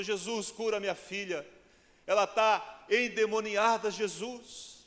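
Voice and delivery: high, slow, drawn-out entreaty; urgent pleading. Acted. Mother begging Jesus to heal her daughter, urgent pleading. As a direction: beg loudly, stretching the words.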